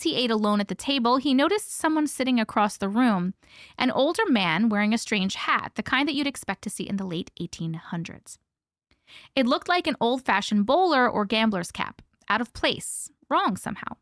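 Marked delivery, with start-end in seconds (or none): 5.7-8.4 whispering. Acted. Spooky story detail whispered.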